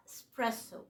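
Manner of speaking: "إسبريسو" with s and no k, es-PRESS-o; correct Italian pronunciation. Shown as a demonstration. Teacher giving the Italian way, "إسبريسو" with a plain s. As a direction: say "إسبريسو" as a light e, then spresso. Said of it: "فالنطق الإيطالي الصح هو".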